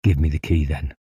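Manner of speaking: calm, understated request. A narrator's reading. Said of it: "said the other calmly".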